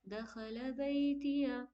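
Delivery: slow, बैतिया with a quick unstretched या; short या. Shown as a demonstration. Teacher repeating the word with short या. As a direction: say बैतिया slowly, no hold on या. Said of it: "या को नहीं खींचिएगा".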